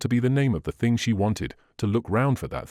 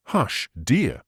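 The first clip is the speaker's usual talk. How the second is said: anxious cry. A narrator's reading. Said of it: "cried Lucy".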